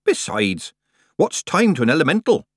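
a hint of prattling countrywoman; chattering Nanny. A narrator's reading. Nanny chatters to Tiffany about the elemental, breezy. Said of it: "Nanny chattered".

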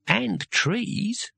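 high, lilting tree voice; friendly. A narrator's reading. Voice from the branches joining in, friendly. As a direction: chime in helpfully from above. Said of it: "said a friendly voice".

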